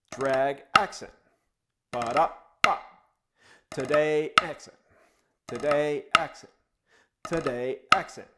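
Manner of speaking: rhythmic drum count with short pauses between repeats; soft drag, accented finish. Shown as a demonstration. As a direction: count out the drum pattern, punching the last word or syllable. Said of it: "that drag is soft, the primary stroke is soft, followed by an accent".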